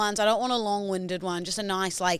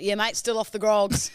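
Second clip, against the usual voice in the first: mocking impression. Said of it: "he's like".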